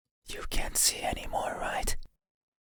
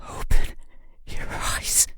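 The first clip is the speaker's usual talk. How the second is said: sharp rising command; 8 dB louder than usual. Acted. Commanding the listener.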